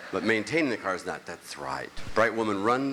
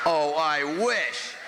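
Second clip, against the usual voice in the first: slow wistful wish; 4 semitones higher, 3 dB louder, much slower than usual. Acted. Punchline aside.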